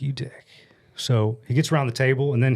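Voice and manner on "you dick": whispered insult. Retold or imitated. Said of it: "I'm like".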